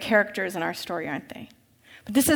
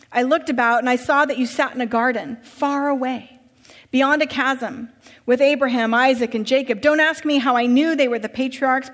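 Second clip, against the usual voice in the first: urgent master; 2 semitones higher, 4 dB louder than usual. Acted. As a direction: hurry him inside, pleading and pressing. Master recounts dream, agitated.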